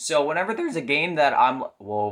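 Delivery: voice breaking on whoa. Talking about games he has mixed feelings about, voice cracking. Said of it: "voice crack".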